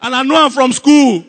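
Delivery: loud hammed-up lament; mock mourning. Professional crier making up memories of the dead, loud mock lament. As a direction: wail it out like a paid mourner. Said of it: "they are professional criers".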